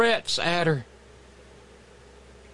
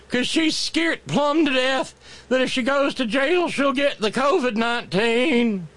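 folksy lawyer; 3 semitones higher than usual. Acted. Mocking folksy defense lawyer.

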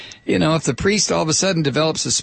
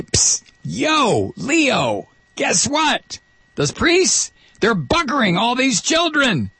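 a mock secret tip-off in a much higher put-on voice; mock Jesus whisper; 10 semitones higher, slower than usual. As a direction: lean in and leak gossip to the pope, pitched way up. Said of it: "whisper into one of these ... popes and say".

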